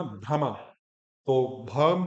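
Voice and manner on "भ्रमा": भ्रमा lower, ending on a sounded ma; full ma. Shown as a demonstration. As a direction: give the final ma of भ्रमा its whole vowel. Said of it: "माँ भी पूरा बोलना".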